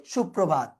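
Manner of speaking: সুপ্রভাত said "shup-probhat"; correct doubled প. Shown as a demonstration. Teacher answering which form is correct, doubled-p pronunciation of সুপ্রভাত. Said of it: "তাহলে শুদ্ধ হলো কি".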